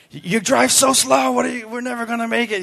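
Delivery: high, fast-rising mock of an impatient pastor; lightly voiced grumpy Pastor Terry; Pastor Terry's complaint. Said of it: "He's like".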